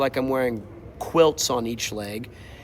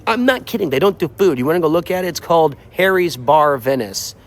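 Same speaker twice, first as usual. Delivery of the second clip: indignant; 3 semitones higher, 7 dB louder, faster than usual. Real, not acted. Indignant rant about no food.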